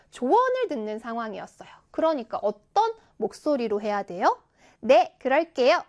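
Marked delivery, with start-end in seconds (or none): 4.8-5.8 louder, bold acknowledgement; loud, confident reply. Shown as a demonstration. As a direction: say it big and assured, unfit for taking advice. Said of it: "이거는 안 어울리죠". (크고 당당한 말투)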